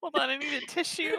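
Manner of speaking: words breaking up with laughter. Apologizing to the others and asking them to wait, laughing while talking. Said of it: "I start like pissing myself laughing".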